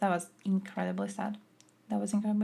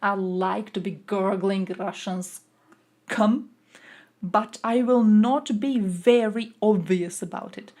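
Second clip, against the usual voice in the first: mock MEP voice; 4 dB louder, slower than usual. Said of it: "they had the self-respect to be like".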